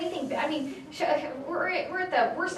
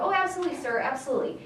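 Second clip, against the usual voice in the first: breezy compliance; faster than usual. Retold or imitated. Acted eager agreement to the boss.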